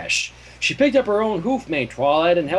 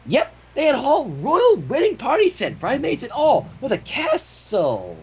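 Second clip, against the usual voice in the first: put-on high kid voice; 8 semitones higher than usual. Spike's voice in the story.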